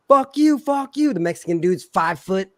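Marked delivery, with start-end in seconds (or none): 0.1-1.1 retold shouting. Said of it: "It's fucking".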